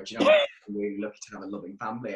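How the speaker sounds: mock queen voice. Quoting a queen, put-on voice.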